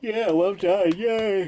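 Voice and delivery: words stretched through a yawn. Real, not acted. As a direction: talk mid-yawn, mouth wide. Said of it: "Why do you sound retarded?".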